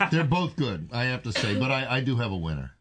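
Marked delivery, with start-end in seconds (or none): 0.0-0.9 laughing. Real, not acted. Tasting beers, laughs.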